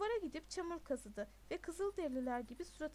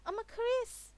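high, loud protest over music; raised, pleading call after someone; shouting; 7 semitones higher, 7 dB louder, slower than usual. A narrator's reading. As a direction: shout to be heard over the party. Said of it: "diye bağırdı Knox, müziğin sesini bastırmaya çalışarak".

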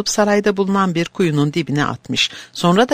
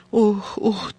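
whimpering sobs; 5 semitones higher than usual. Acted. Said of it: "diye haykırarak sızlanmaya".

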